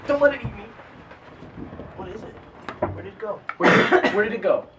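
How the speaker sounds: high, loud frightened pleading; half-joking panic at a bug; panicked. Real, not acted. Panics at a creature in room.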